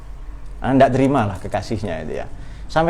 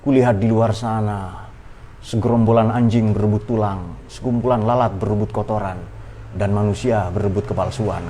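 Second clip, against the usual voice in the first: poem recital; 4 semitones lower than usual. Shown as a demonstration. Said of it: "Seperti puisinya Dwi Pangga itu loh".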